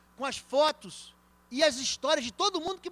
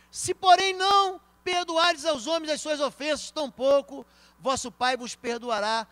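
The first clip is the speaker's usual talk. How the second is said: preaching loudly; 3 semitones higher, 7 dB louder than usual. Real, not acted. Pastor proclaims Matthew to the church, loud. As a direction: thunder the verse. Preaching scripture at full force.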